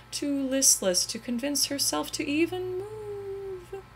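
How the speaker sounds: narration slowing into a cry; tearful. A narrator's reading. Narrator telling her heartbreak, tearful. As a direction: let the voice break with grief.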